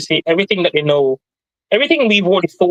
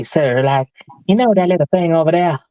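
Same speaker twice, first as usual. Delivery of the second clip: put-on Southern accent. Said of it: "he called himself impersonating Southern folk".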